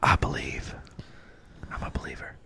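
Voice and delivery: hushed, reverent "I'm a believer"; playful whispered faith; mock whispered belief. Mock devotion to a player.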